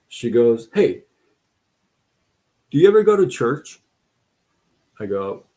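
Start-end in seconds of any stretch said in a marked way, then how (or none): 0.7-3.8 higher, quick, chirpy question from the boss; mock bright boss voice. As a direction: play the cheerful boss asking lightly. Retold boss asking about church.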